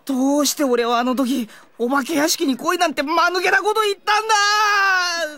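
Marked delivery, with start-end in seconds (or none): 1.8-5.4 anguished regret. Acted. Regretful outburst to friends.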